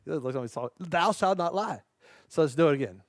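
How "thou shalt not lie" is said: slow, laughing through the words. Shown as a demonstration. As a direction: giggle as you repeat it.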